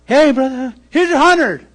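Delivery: breezy handing over the cash; cheerful. Retold or imitated. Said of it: "I'm like".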